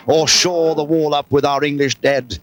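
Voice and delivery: high, stirring Henry V rallying cry; rally the troops like Henry V at the breach; rousing Shakespeare declamation. Acted. Commentator urging the British rider on, rousing declamation.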